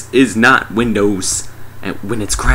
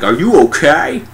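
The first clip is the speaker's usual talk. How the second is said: higher, exaggerated anxious question; mock concern; 7 semitones higher, 4 dB louder than usual. Friends check the rescued dude, mock concern. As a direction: lift it into comic concern. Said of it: "they're all like".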